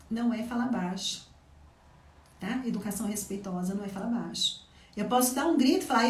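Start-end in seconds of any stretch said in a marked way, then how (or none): 5.0-6.1 loud, fast build-up shout; loud and rushed. Shown as a demonstration. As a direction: raise the voice as if yelling.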